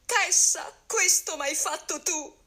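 high, slow, frantic accusing cry; frantic shout. A narrator's reading. Calandrino accuses his wife Tessa, shouting frantically, high and slow. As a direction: cry out at your wife, beside yourself. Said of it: "cominciò a gridare forsennato".

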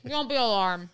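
laughing through a mouthful; chewing while talking. Real, not acted. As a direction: talk while chomping pretzels. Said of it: "if you hear me chomping".

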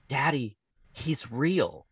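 slow, lightly voiced small child in awe; a hint of a wide-eyed little girl; little daughter. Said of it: "she was like".

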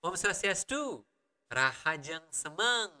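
Om Swastiastu, Rahajeng Semeng in a Karangasem Balinese accent; normal-speed Karangasem dialect greeting. Shown as a demonstration. Teacher showing the accent of home region, Karangasem accent at normal speed. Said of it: "normal speed again with my dialect".

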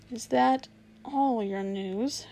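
slow and menacing; slow, cruel. Acted. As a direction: let each word drip with cruelty. Witch's cruel question.

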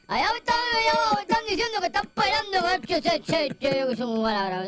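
loosely imitating Joel's rambling talk; lightly voiced Joel. Radio host imitates coworker Joel for his cohost, lightly voiced. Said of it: "Así es que habla".

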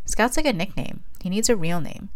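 exclaiming. Acted. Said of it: "Amelia exclaimed".

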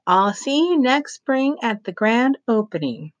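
syrupy spokeswoman charm; Mother Paula. A narrator's reading.

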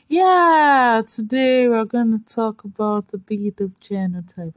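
self-conscious, under a stare; odd put-on voice. Real, not acted. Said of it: "I don't know why I'm talking like this".

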